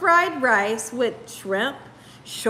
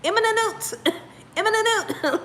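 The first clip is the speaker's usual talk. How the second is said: higher-pitched French refrain, lightly mimicked; imitating French teacher; 6 semitones higher, 3 dB quieter than usual. Retelling the French teacher stalling raised hands, lightly imitated. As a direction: play the teacher putting pupils off, amused. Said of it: "she'll tell us".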